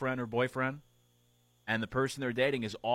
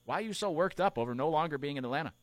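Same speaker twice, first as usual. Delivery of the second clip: much higher, needling voice; mock annoyed teammate; 5 semitones higher than usual. Host voicing Kershaw, mildly annoyed at Freeman. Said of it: "a little annoyed".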